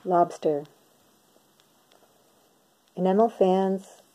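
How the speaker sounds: measured poem recital with pauses between lines; poetry reading. Acted. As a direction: read it line by line, letting each phrase land and fall. Reads second poem aloud.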